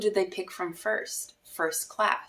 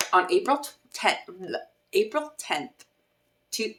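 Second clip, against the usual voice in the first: tipsy; 2 semitones higher than usual. Real, not acted. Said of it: "I'm sorry, I'm tipsy".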